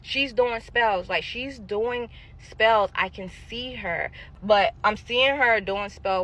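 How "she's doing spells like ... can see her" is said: retold yell. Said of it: "I'm yelling out loud".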